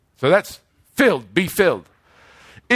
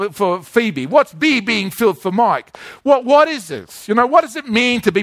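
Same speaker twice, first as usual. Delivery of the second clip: lightly voiced puzzled listener; 3 semitones higher than usual. Preacher voicing congregation members' confusion, mildly puzzled. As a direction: ask like a baffled member of the flock.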